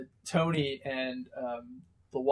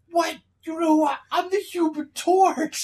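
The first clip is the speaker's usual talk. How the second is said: high, loud, slow proud declaration; Human Torch boasting; 7 dB louder than usual. Retold or imitated. Johnny introducing himself to Captain America, loud and proud. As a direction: announce yourself grandly. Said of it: "Johnny's like".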